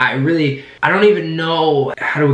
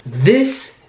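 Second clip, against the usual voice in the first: slow, drawn-out yell rising higher; celebratory yell; 6 semitones higher, much slower than usual. Real, not acted. Host leading fans in a Super Bowl victory, celebratory yell. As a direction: announce it big, stretching every word. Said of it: "I'm gonna yell".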